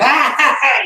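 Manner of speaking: big high mock laugh, loud; imitating mom's laugh. Imitating his loud mother laughing, a big mock laugh. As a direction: ham up a loud cackling laugh. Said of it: "she laughed".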